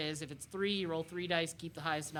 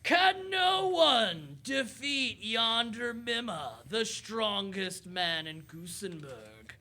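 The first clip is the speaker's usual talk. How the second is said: strongman boast; 2 semitones higher, much slower than usual. Acted. Strongman voiced by the GM.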